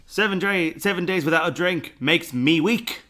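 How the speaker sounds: mock Cockney reading of the sign; Cockney accent. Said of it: "read in, like, a Cockney voice".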